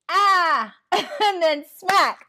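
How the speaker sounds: dramatic slow smack with a laugh; drawn-out, laughing smack; mock crash. Sudden bump on life's road.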